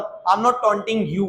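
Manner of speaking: "not" leaned on in a slow model sentence; slow, spaced words with weight on "not"; stress on not. Shown as a demonstration. Teacher showing the negative answer, "not" stressed. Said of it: "मैं तुम्हें ताना नहीं मार रहा हूँ".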